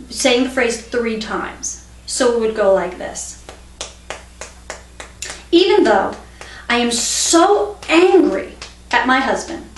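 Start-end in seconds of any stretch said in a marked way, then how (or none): 5.5-9.6 demonstrated anger, slow stressed "so angry"; mildly angry. Shown as a demonstration. Teacher modelling a tapping phrase for learners, mildly angry. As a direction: lean hard on "so angry", mildly fed up.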